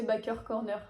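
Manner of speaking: Baker Corner said the French way, bakœr kɔrnœ; French pronunciation. Shown as a demonstration. Vlogger giving viewers the French version, plain French reading. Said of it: "prenez l'accent que vous voulez".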